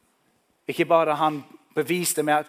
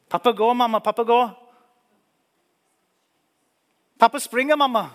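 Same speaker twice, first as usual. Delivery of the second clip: high, loud joyful shouting; excited children; 8 semitones higher, 7 dB louder, faster than usual. Acted. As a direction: shout the news to mother.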